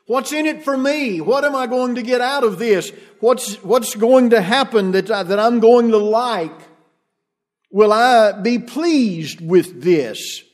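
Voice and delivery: lightly voiced self-centred worshipper; a hint of a selfish churchgoer; mock consumer. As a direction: mimic a demanding consumer. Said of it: "consumer-based approach".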